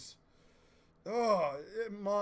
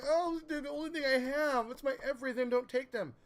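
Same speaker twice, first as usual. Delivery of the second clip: mock crying plea; 6 semitones higher, 4 dB louder than usual. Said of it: "and the mom's crying".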